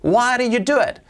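mock accusation; accusing question. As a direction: demand an explanation from Carlos. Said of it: "¿por qué lo hiciste?".

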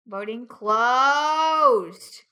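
slow, drawn-out announcement; announcer voice. Acted. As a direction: stretch it out like a game-show host. Announcing vote close.

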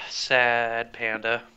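slow mock-sad mumble. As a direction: drag it out in mock sorrow. Mock sad after sigh.

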